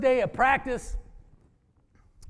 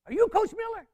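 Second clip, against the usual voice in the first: put-on a higher, light boyish voice; Brad's voice; 10 semitones higher than usual. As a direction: lightly voice the shy student asking. Voicing young Brad in wheelchair.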